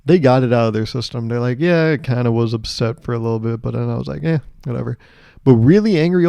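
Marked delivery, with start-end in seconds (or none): 1.6-5.0 softening, offhand shrug of a voice; lightly acted easygoing indifference; chill old person. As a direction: shrug it off, trailing down quieter. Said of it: "chill old people".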